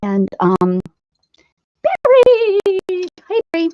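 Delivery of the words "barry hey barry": loud, high call across the room. Real, not acted. Greeting a viewer joining the stream, calling out. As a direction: call out a name in welcome.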